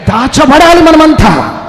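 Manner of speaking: high, loud, slow sermon cry; slow, soaring preacher's cry; fiery preaching. Acted. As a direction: proclaim it to the whole hall. Preacher rises to full force.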